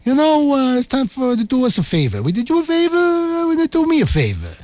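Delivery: high, wheedling favor-asker; mock lobbyist. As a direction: lean in asking for a favor. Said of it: "they say".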